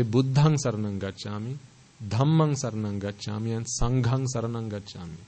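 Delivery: "Buddhang", "Dhammang", "Sanghang" with aspirated dh and gh; correct Pali recitation. Shown as a demonstration. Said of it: "make sure".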